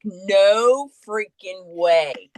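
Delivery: slow, stretched-out astonishment; amazed disbelief. Retold or imitated. Friend reacting to the uncanny Bible passage, amazed disbelief. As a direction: draw each word out in disbelief.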